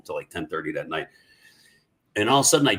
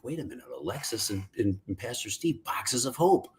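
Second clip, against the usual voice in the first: sudden realization; 8 dB quieter than usual. Retold or imitated. Sudden idea while praying.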